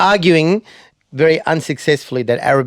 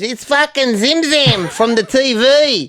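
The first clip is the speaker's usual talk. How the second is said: high, drawn-out mock yell; excited announcement; 11 semitones higher, slower than usual. Stranger announcing a TV star to his friends, slow high yell. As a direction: holler it slowly and high, imitating a thrilled fan.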